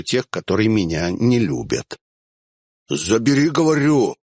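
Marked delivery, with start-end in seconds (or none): 2.9-4.2 firmer demand. Acted. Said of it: "твёрже потребовал жжёный".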